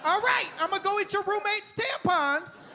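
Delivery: very high, squeaky dog character; high-pitched cartoon dog talk; excitable talking dog. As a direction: chatter like a simple-minded, excited dog. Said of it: "If my dog could talk".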